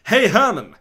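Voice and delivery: loud, high playful shout; yelling. Acted. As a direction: call out to put him off his kick. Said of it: "I thought of yelling".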